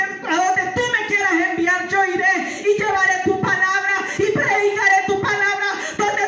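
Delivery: vowing to preach, building to a shout; fervent preaching. Acted. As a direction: build to a shouting promise before God.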